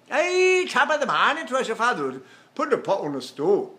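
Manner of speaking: high Irish greeting that drops steadily; mock Irish accent. Shown as a demonstration. Teacher hamming a morning greeting, high mock Irish accent. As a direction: hail them in stage Irish.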